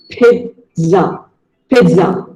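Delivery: pizza said as peet-sa; Pizza, the model way; Pizza, slow and careful; correct pronunciation. Shown as a demonstration. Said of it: "the actual pronunciation of the word is pizza".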